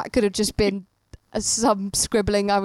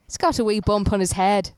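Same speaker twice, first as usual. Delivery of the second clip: put-on failed Scottish accent. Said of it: "I can't do Scottish".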